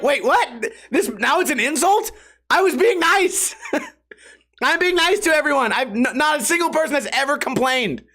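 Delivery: high-pitched incredulous self-defence; indignant protest. Retold or imitated. Bar regular told his gift offended, indignant protest. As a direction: protest in a high, wounded squeal, half laughing.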